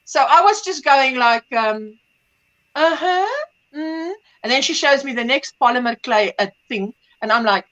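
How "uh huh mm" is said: higher, token uh-huh trailing softly; faked interest. Mother answering daughter's clay talk, faking interest. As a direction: pretend to follow along. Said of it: "I'm already faking it".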